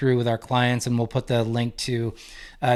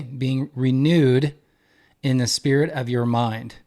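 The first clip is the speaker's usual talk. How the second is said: "Being renewed" drawn out very slowly, each word weighed; slow, deliberate restatement; slower than usual. Shown as a demonstration. Teacher to listeners, dwelling on the key phrase slowly. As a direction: lean on "renewed", slowing way down to let it land.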